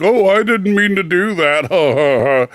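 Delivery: slow, drawn-out fake innocence; mocking imitation. Co-host mocking the host's fake apology, slow and sarcastic. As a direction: parrot his apology back at him, slowly. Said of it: "you act like".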